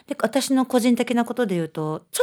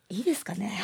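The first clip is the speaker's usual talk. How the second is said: timid question; 8 dB quieter, faster than usual. Retold or imitated. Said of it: "みたいな感じの".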